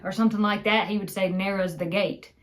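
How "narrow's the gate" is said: Narrow's the gate run together, no is; imitating the grandpa's contraction; dropped is. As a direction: say "Narrow's the gate" as one slurred phrase. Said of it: "he's saying".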